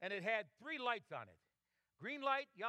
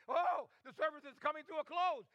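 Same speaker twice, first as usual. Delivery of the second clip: high, raised-voice glee, retold; excited child; 6 semitones higher, 5 dB louder than usual. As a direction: imitate a boy getting excited. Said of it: "he began to get excited".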